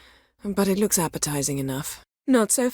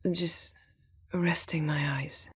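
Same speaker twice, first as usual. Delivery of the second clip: drowsy; 2 semitones lower, slower than usual. Acted. Sleepy excuse.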